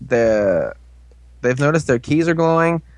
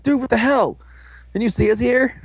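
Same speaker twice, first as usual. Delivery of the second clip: high-pitched acted complaint; mock indignation; 9 semitones higher than usual. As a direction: protest in a raised, exasperated voice. Acted complaint to careless giant teammate.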